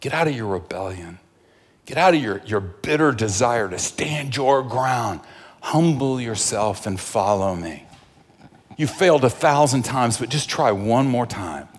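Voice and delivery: soft, hushed, pleading call to follow; gentle voice of the Lord. Acted. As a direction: coax them softly, like a patient shepherd. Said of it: "where is he saying".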